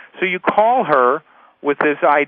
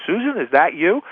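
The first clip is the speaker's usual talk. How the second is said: surprised recognition; 4 semitones higher than usual. Acted. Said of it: "I bump into Susan and I look at her".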